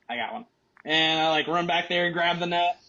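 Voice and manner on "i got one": very soft, deadpan "I got one"; calm, quiet. Retold or imitated. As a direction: drop the voice right down, no fuss at all. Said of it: "He was like".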